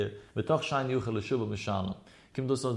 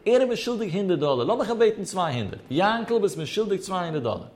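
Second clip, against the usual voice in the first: higher-pitched, emphatic mock claim; acted demand; 5 semitones higher than usual. Creditor demanding two hundred dollars from Jankel, emphatic acted claim. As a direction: press the claim, each phrase starting high.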